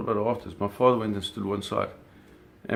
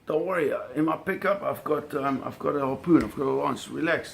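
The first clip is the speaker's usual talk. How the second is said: higher, mild mock shout to reassure; retold shout; 5 semitones higher than usual. A friend on the dock calling to my dad, mild higher mock shout. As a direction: call out higher across the dock, half-playing it. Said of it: "he shouts to my dad".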